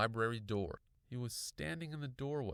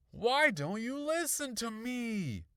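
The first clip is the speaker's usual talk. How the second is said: high, loud, drawn-out demand; angry outburst; 13 semitones higher, 7 dB louder, slower than usual. A narrator's reading. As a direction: yell in exasperation. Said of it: "angry scream".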